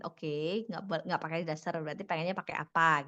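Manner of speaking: calm, low-pitched agreeable question; easygoing acted response, no challenge; accepting, listening reply. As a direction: take it in and ask back mildly. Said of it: "Bukan lantas kita dengerin".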